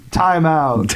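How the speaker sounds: laughing ref call; referee call. Pretend. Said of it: "Can someone do an impression of a ref?".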